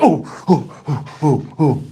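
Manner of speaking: breathy falling oohs; distressed oohs. Retold or imitated. Cellmate reacting to the parking ticket, breathy distressed oohs. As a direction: imitate a worried man puffing out oohs.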